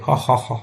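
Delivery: half-hearted spoken "ha ha ha"; mock roaring laugh. Shown as a demonstration. Teacher shows how everyone roared laughing, understated mock laugh. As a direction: imitate a burst of laughter, softly. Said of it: "एकदम हंसी के अंदर एकदम दहाड़ पड़े".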